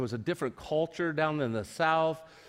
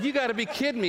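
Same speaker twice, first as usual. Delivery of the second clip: can't believe he's being abandoned; laughing disbelief; 9 semitones higher, faster than usual. Retold or imitated. Pastor to Doug on hearing he won't play, laughing disbelief.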